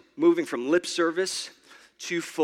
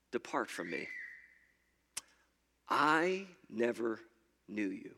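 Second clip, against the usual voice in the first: stern Jesus; 10 semitones lower, 10 dB quieter than usual. Retold or imitated. Jesus turning away the believer, grave and low. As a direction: pronounce the verdict low and final.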